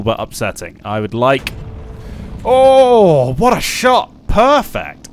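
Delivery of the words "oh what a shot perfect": thrilled high shout; excited shout. Real, not acted. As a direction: cheer the shot loudly. Great shot in game.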